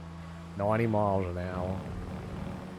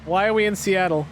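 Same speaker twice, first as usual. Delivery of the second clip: excited; 10 semitones higher than usual. Real, not acted. Excited at new car.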